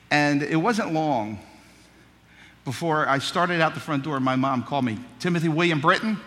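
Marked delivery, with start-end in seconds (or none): 5.2-6.2 calling out full name. Retold or imitated. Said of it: "That's what she'd say".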